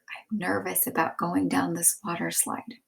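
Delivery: whispered. Shown as a demonstration. Teacher reading Jasmine's nervous whisper, soft. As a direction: hush it like a nervous kid. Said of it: "Jasmine whispered".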